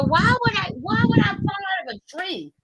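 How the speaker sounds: high, indignant mock child's question; child questioning parents. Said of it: "look up at our parents and go".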